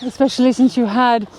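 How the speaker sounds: mock-British airs, measured and teasing; put-on British accent. Wife teasing husband about his British ex, put-on British accent. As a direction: keep up the fake British with a haughty edge. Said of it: "sound absolutely British".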